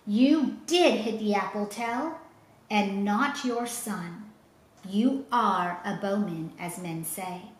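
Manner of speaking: mild shout, slowing down. Acted. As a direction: governor calls to the archer. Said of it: "Walter heard Gessler shout".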